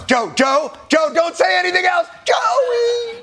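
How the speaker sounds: high, urgent yelling plea; pleading shout. Real, not acted. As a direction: beg him to stop talking. Pleading to Biden on screen.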